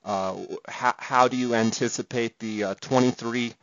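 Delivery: distorted bad-connection audio; fuzz distortion. Real, not acted. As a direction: voice crackling through a bad line. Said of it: "the distortion that you're gonna hear".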